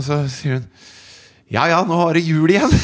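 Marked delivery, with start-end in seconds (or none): 1.5-2.7 joking quip. Retold or imitated. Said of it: "hun prøver liksom å være morsom".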